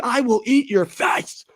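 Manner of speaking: high, slow menacing whisper; mock menacing whisper. Threatening the streamer as a chat atheist, mock whisper. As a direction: hiss the threat like a cartoon villain. Mocking an angry atheist chatter.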